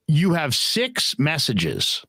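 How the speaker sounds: slow, measured machine announcement of SIX MESSAGES; answering machine voice. Retold or imitated. Voicemail machine reporting to its owner, slow recorded-prompt voice. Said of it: "and it's like".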